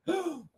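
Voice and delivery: high, soft gasp of sudden remembering; feigned startled intake of breath; mock gasp. Mock reaction to being accused.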